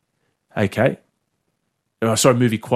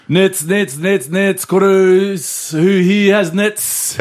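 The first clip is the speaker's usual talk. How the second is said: put-on Pacific Islander accent; 5 semitones higher, much slower than usual. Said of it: "Here we go".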